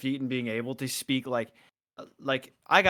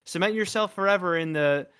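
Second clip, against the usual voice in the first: rousing pep talk; 5 semitones higher, 6 dB louder than usual. Retold or imitated. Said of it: "kick anybody in the butt and say".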